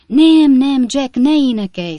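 high, loud alarmed protest; urgent interruption. A narrator's reading. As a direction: cut your friend off before he starts. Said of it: "szakította félbe Bob Sawyer".

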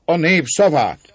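loud, high, slow call; Márton urging György on. A narrator's reading. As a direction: cry out in triumph. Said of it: "kiálta Márton".

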